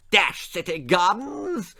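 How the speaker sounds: high, indignant posh blast. A narrator's reading. Lord Percy blasting the city gardens to his wife. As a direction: fume at the city. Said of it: "blasted the Lord".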